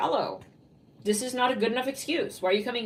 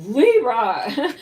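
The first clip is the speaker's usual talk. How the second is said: excited call; 7 dB louder than usual. Real, not acted. Reader calls out the sign.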